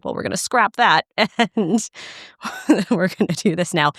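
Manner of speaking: lightly laughing mock resolve; laughing self-quote. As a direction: quote your own snap decision with a laugh. Laughingly quotes own change of plan.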